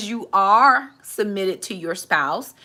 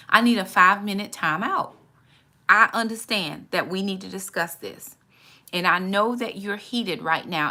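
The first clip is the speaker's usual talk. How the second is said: calm request; 3 semitones lower than usual. Shown as a demonstration. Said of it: "this is what I tell people".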